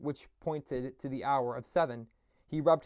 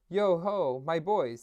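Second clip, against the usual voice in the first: jovial Fezziwig; 4 semitones higher, 5 dB louder, slower than usual. Acted. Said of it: "said Fezziwig".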